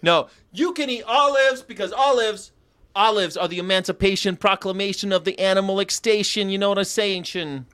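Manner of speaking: lightly voiced pretentious slam poet. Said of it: "a slam poet".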